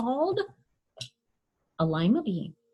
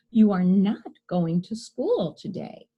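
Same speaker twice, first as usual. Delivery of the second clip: firm order; 3 dB louder than usual. Acted. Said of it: "her mother ordered".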